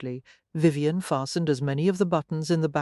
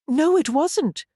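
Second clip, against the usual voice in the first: loud, high growl; 10 semitones higher, 6 dB louder, slower than usual. A narrator's reading. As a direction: growl it back at her. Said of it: "he growled".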